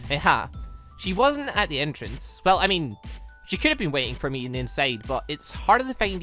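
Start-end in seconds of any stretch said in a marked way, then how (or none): none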